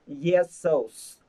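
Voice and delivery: "Jesus" as one blended word; model linked reading. Shown as a demonstration. Teacher modelling the linked form for repetition. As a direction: say "Jesus" smoothly for them to repeat. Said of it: "Em đọc nhá".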